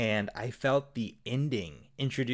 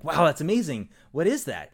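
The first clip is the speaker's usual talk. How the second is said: higher, louder wowed reaction; impressed amazement; 5 semitones higher, 5 dB louder than usual. Acted. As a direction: act mildly astonished. Acting impressed golfers in a joke.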